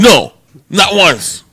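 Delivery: "No, not once" high, loud and drawn out; slow, punched "No", then a stressed "not once"; emphatic denial. Real, not acted. Emphatic denial answering the question.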